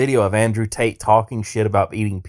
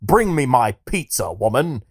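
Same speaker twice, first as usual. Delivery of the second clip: mock Tate. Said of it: "Tater decides to respond".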